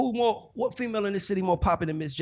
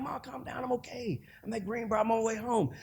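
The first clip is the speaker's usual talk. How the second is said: much softer, placating son; calming mom; 6 semitones higher, 5 dB quieter than usual. Retold or imitated. Teenage son soothing his furious mom on the phone, soft. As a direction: talk her down gently.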